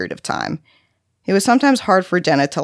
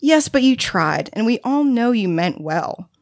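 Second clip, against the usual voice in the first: higher-pitched, gentle encouragement; reassuring; 5 semitones higher than usual. A narrator's reading. Visitor telling boy he meant well, reassuringly. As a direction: console a child who feels they failed.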